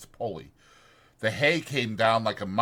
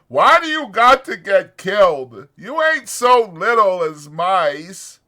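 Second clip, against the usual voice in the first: loud, higher, angry demand; angry outburst; 10 semitones higher, 12 dB louder than usual. A narrator's reading. Lenny rages at the dead puppy, loud and angry. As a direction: shout the question at the puppy. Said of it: "Suddenly his anger arose".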